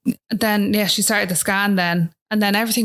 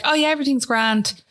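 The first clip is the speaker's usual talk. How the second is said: breezy; 5 semitones higher than usual. Retold or imitated. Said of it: "an Irish thing".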